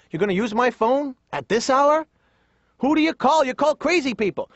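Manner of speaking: high, swooping imitation of a fretting father; incredulous nagging dad. Dad to son going out at night, scandalised nagging. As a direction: pile up scandalised questions, pitched high. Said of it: "He'd always be".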